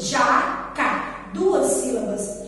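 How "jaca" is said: "Jaca" in two separate beats; split into syllables. Shown as a demonstration. Teacher counting jaca's syllables for children, syllable by syllable. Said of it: "Jaca tem quantas sílabas?".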